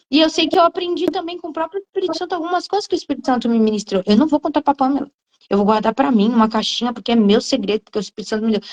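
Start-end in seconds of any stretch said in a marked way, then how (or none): 4.1-8.6 fast, petty secretive tone; mock selfish voice. Mocking a jealous believer, in petty secretive tone. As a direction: play the stingy believer hoarding gifts. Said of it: "Claro que não".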